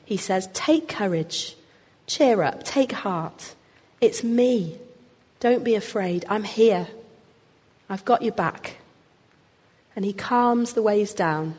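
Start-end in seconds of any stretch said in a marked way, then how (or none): 0.5-8.8 calm frightened friends; reassuring. Retold or imitated. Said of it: "speaks words of reassurance and peace to them".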